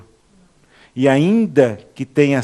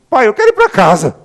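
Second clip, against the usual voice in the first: higher and louder plea; preacher voicing his father praying, raised and loud; father's longing prayer; 7 semitones higher, 6 dB louder than usual. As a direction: ache to go home. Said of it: "Depois de novo".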